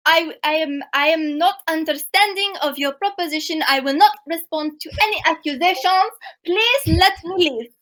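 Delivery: put-on evenly spoken, lightly French-accented refusal; attempted French accent. Accused thief asking to leave, light French accent. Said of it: "I can't do a French accent".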